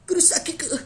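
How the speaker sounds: very high, squeaky mock anime girl cry. Vlogger mocking the Bleach girl's one line, high squeal. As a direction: squeal the name like a helpless anime heroine. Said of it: "मैं कोई ब्लीच देख रहा था".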